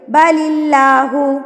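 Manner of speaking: बलिल्लाहु slowly, l thinned through a smile; smiling thin lam. Shown as a demonstration. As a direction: smile to keep the l of बलिल्लाहु light. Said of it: "smile करें, फिर पढ़िए".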